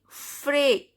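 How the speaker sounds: "Frais" said as "fray"; "Frais" with the S dropped; silent final S. Shown as a demonstration. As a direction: say "Frais" ending on the vowel. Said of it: "S is silent".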